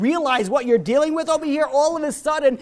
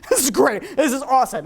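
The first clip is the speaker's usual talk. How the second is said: a giddy laugh through thrilled words; laughing delight; 2 semitones higher than usual. Retold or imitated. New returnee overjoyed after his prayer, laughing. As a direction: laugh it out like a kid after a first real prayer.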